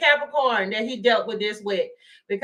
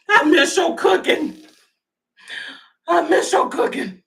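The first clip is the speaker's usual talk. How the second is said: mock lonely lover; 4 semitones higher, 4 dB louder than usual. Mock-voicing lonely Michael.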